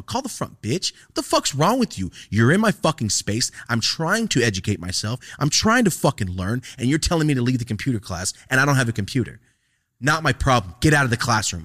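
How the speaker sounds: high, loud furious outburst; angry rant. Retold or imitated. Student yelling back at the teacher over the computer, angry.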